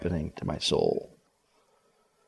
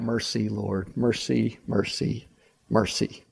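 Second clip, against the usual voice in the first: pleading for mercy; 4 semitones lower, 7 dB quieter, slower than usual. Acted. Desperate cry for mercy.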